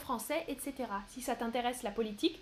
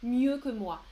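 slow example sentence; slower than usual. Shown as a demonstration. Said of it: "Mieux, ça qualifie le verbe".

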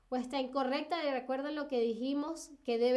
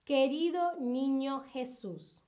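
slow dictation. Shown as a demonstration. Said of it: "cuál de las siguientes opciones estoy diciendo".

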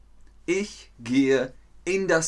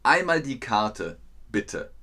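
ticket checker at the door. Acted. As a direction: play the doorman asking for the ticket. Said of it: "Das sagt die Person am Eingang".

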